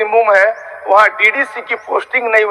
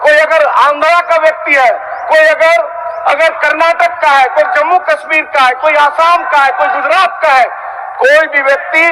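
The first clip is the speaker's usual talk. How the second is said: heated oratory; 3 semitones higher than usual. Real, not acted. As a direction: hammer the list home to the house. Heated speech listing other states.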